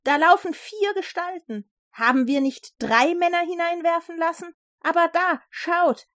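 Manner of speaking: high, amazed calling out; sudden astonished cry. A narrator's reading. King spots four figures in the fire, astonished. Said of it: "aber plötzlich rief er auf".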